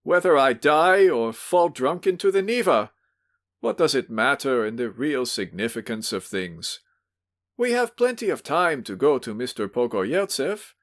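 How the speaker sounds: put-on drunken tearful pleading. Drunk visitor pleading with angry host, tearful. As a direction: beg him not to shout, near tears. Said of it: "with drunken sentimentality, almost with tears".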